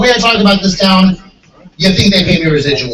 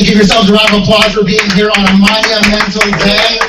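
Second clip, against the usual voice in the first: cheesy guy; 2 semitones higher, 4 dB louder than usual. Acted. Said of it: "I'm gonna be that cheesy guy and say".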